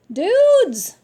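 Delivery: high, loud joyful shout; excited loud greeting. Acted. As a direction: call out to the gang. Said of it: "shouted Scipio".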